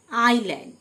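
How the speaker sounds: "আইল্যান্ড" with no S sound; silent S. Shown as a demonstration. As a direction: say "আইল্যান্ড", gliding from "আই" straight to L. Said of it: "এস লেটারটি". ("আইল্যান্ড", এস উচ্চারণ না করে)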